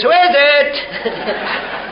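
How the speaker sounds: high, drawn-out parrot squawk; slow, high-pitched parrot call. Acted. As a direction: stretch the question out like a parrot. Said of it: "Parrot says".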